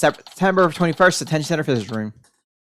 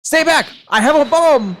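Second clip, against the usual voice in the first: mock yell; 6 semitones higher, 4 dB louder than usual. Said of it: "yelled out".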